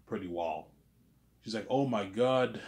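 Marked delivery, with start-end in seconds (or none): 1.7-2.6 lightly French-accented imitation of a date; amused mock French accent; imitated French accent. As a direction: put on a hint of a French accent. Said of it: "She has her French accent".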